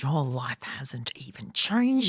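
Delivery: retold outburst, slow start climbing high; imitated exasperation. Woman retelling a row with her partner over the baby, exasperated. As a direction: drag out the complaint, then rise in pitch.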